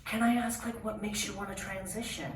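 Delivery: high-pitched, sweetly polite intake voice; therapist. Retold or imitated. Therapist greets a new client, high and polite. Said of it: "She's like".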